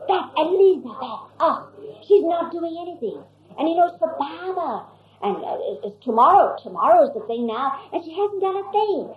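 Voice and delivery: a lightly voiced flustered complaint; fretting Norina. Norina complains, worried about costume.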